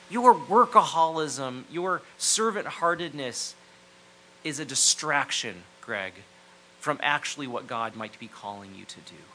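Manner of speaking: blunt honesty. Retold or imitated. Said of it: "brutal in her honesty".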